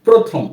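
প্রথম said as "protham", o after p; প্রথম with a clear o-sound; model reading. Shown as a demonstration. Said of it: "কি হয়?". (প্রথম শব্দে ও-কারান্ত উচ্চারণ)

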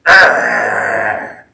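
throaty growl like a lion. Shown as a demonstration. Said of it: "It means to growl like a lion".

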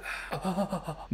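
soft fluttering sigh; repressed flutter. Retold or imitated. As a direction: let a quiet, held-back flutter of breath escape. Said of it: "that was repressed a little bit".

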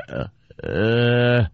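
low, drawn-out "uh"; a dull, stupefied drone under the breath; dumbfounded groan. Acted. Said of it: "going like".

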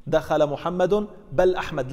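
دخل محمد slow and loud, then بل stressed; teaching example. Shown as a demonstration. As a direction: spell out the example slowly for the class. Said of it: "نقربها". (مثال تعليمي بطيء مع تشديد على بل)

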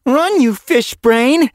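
high, loud, slow scolding shout; loud exasperated shout; urgent yell. Acted. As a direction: bark the order at her. Cat yells at sister.

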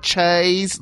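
Cheese said as chayz; mock regional accent. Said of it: "you kinda have to work if you go".

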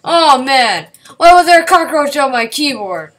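high, loud disgusted yelling; startled shriek. Real, not acted. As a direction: yell in real fright at a bug. Cockroach found on keyboard.

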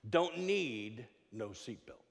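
slow, drawn-out boast; mock champion's brag; Muhammad Ali. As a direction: stretch it out with swaggering self-confidence. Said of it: "he looked at her and he said".

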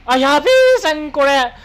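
fast, high alarmed outburst; excited yelp. Real, not acted. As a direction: blurt it out in sudden alarm. Sudden danger in the game.

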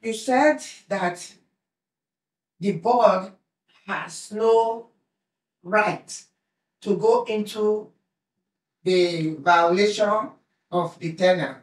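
projected, with pauses between phrases; big voice. Real, not acted. Tenant asked to use her big voice, projecting to the board. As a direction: lean on each phrase so the room hears. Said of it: "Use it".

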